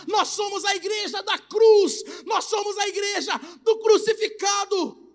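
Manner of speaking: loud pulpit preaching, pressing each phrase; fiery preaching. Acted. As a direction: preach it hard to the congregation. Preacher at full force. (pregação inflamada e forte)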